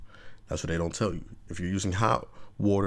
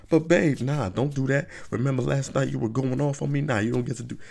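higher pleading babe; protest, pitched up; whiny girlfriend protest; 5 semitones higher than usual. Retold or imitated. Girlfriend protests to boyfriend, higher pleading. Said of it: "girlfriend protests".

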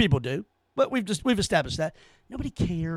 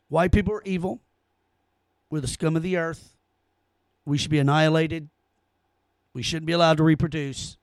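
sarcastic recital; 3 semitones lower than usual. Retold or imitated. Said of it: "I'll say what you want me to say".

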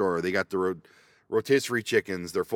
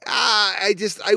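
mock sob; 9 semitones higher, 5 dB louder than usual. Mock crying.

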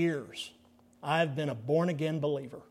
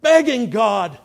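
higher, louder grieving, slowed; mournful lament; 8 semitones higher, 10 dB louder than usual. Retold or imitated. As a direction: ache through the words. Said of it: "He said".

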